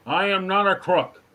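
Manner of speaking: lightly voiced Nixon; a hint of Nixon's denial; Nixon impression. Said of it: "what other imitations can you do".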